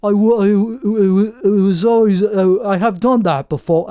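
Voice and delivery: put-on putting on a British accent to sound good at talking. Talking like a Brit to sound smarter, mock British accent. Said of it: "You have, like".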